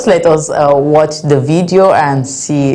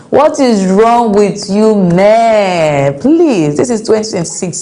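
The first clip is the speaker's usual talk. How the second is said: drawn-out, higher-pitched reproach, then urging; exasperated scolding; 4 semitones higher, slower than usual. Real, not acted. Scolding cheating men.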